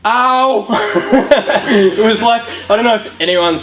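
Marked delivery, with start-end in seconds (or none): 0.0-1.6 pained laughing cry. Real, not acted. Reacting to his own humiliating story.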